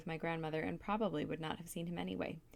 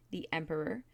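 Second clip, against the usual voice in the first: "Emperor" set apart after a pause; pointed emphasis on "Emperor"; stress on Emperor. A narrator's reading. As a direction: give "Emperor" deliberate weight. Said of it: "she emphasized this last word".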